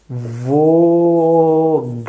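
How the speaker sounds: "vogais" bem arrastado, vooo-gaaais; sílabas esticadas. Shown as a demonstration. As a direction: segure longamente cada sílaba de "vogais". Teacher stretches word while writing it. ("vogais" cantarolado e prolongado, em duas partes)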